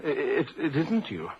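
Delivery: stammering in shock; taken aback, halting; stunned disbelief. Acted. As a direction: falter as you recognise a friend. Shocked at finding the doctor.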